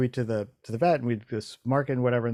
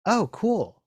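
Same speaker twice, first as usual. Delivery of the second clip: pleasant surprise; 9 semitones higher than usual. Retold or imitated. Retold own reaction.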